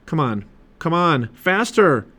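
urgent urging, rising at the end; urgent order. A narrator's reading. Jack ordering the mini-sub upward, urgent. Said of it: "Jack ordered the mini sub".

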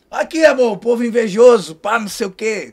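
loud, swaggering imitation of a friend; loud mock MC swagger; imitating Kevin's voice. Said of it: "Com aquela voz rouca dele".

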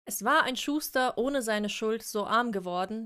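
slow, measured fairy-tale reading; story narration. A narrator's reading. Co-host reading Brothers Grimm aloud, slow storytelling. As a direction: open the tale like a storyteller, unhurried.

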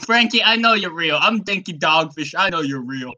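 Denki Dogfish. Acted. Impostor fish vouches for his brother, terrible imitated accent. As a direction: badly mimic your friend's accent. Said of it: "That is a terrible impersonation of my accent".

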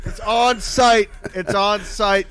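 high, slow cracking voice. Real, not acted. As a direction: let it crack on site. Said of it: "your voice was cracking".

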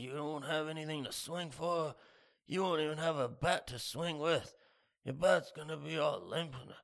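lightly voiced older barfly. Older divorced guy voiced.

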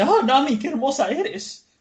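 high, drawn-out swooning cry; hammed-up lovestruck gushing; smitten. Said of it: "alucinado porque Nami".

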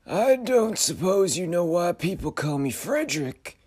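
high uncanny question; otherworldly figure probing; eerie high voice. Acted. Frederick asks.

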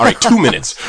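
high, loud caving-in voice; mock giving in. Tempted man agrees to the goat video, giving in. Sketch man caves in to offer.

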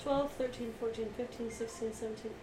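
quiet steady counting. Real, not acted. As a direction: softly count up the messages. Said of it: "twenty-five text messages".

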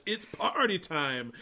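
slow, stretched-out dog catchphrase; party dog. Retold or imitated. Host mimicking the dog's looped catchphrase, lightly drawn-out party cheer. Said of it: "Every time the dog says".

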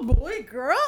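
put-on voice. Shown as a demonstration. Podcaster repeating the title, in a put-on voice. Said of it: "trying out a different voice".

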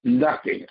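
"Nothing" as an emphatic standalone word; stress on nothing. Real, not acted. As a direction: set "Nothing" apart, firmly stressed. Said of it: "I stress the word nothing".

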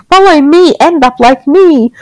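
lightly voiced creepy doll calling. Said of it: "a creepy doll voice starts repeating".

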